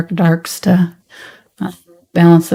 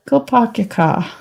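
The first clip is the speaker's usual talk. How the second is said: higher-pitched mock Boston accent; 4 semitones higher, 4 dB quieter than usual. Painter botching a New York impression, higher Boston accent. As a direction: try on a Boston accent, playfully. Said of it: "No, that's Boston".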